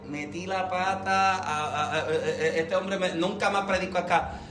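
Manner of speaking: pensamiento grave y arrastrado, titubeante; laméntate por dentro, grave y lento; temor para sus adentros. Retold or imitated. His worried thought, low voice. (lamento interior actuado)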